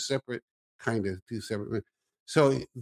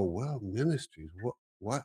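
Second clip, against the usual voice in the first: softer, bewildered question; puzzled waking; 7 dB quieter than usual. Retold or imitated. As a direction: mumble it half-awake and confused. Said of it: "I wake up and go".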